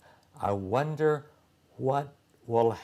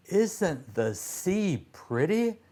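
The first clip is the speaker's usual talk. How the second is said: put-on girl's voice; 8 semitones higher than usual. Constance's line voiced high.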